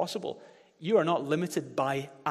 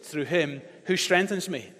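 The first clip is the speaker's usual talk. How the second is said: slow and louder, leading the crowd; slow loud unison recitation; 5 dB louder, slower than usual. Shown as a demonstration. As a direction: chant it together, slowly. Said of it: "Say it again".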